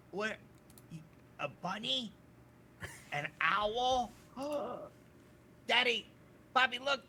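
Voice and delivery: put-on high, loud astonished child voice; amazed little kid. Little boy amazed by a bunny and an owl, high and loud. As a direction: gasp out the wonder of a child.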